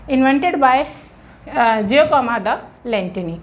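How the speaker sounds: name stretched out syllable by syllable; slow dictation of a name. Shown as a demonstration. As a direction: let every syllable of the name land. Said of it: "teacher dictates name".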